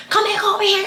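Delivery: high, laughing mock call. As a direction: mimic her while laughing. Mocking the caller, laughing.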